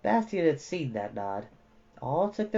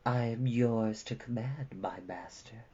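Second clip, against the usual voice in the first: quiet, fading, yielding; bow your voice down to him; soft submissive murmur; 4 semitones lower, 8 dB quieter than usual. A narrator's reading. Zaida to Bastian, lashes lowered, softly submissive.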